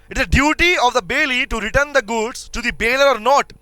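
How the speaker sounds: slow, stressed on duty; teacher repeating the question slowly; slow dictation. Shown as a demonstration. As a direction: drag the question out, punching duty. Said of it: "repeating the question slowly".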